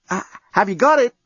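high-pitched, hesitant question; nervous. A narrator's reading. Lucy checks on yelling journalist, nervously. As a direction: ask gingerly, with a nervous false start. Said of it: "Lucy asked nervously".

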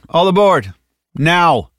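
loud, high boarding call; calling out orders. Acted. Martinez hurrying the group onto the vehicle, shouted order. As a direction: call it across the room, brisk and insistent.

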